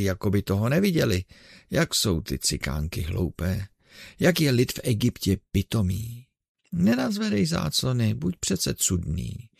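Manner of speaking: put-on excited old showman talking to his lad; chattering showman. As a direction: keep up a busy patter for the blind girl. Ursus chatters behind curtain.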